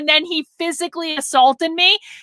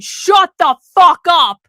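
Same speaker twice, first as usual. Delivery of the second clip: a firm but only mildly raised retold shout; retold telling-off; 4 dB louder than usual. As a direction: reenact shutting down a heckler. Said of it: "and I said".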